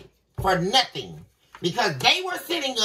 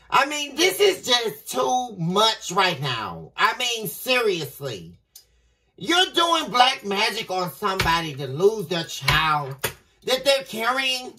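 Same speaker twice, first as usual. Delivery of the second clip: emotional; slower than usual. Real, not acted. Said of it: "I'm getting really emotional about this".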